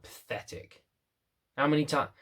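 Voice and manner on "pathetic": whispered contempt; sneering inner voice. Retold or imitated. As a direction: breathe it out like a scornful critic. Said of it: "you have the other voice going".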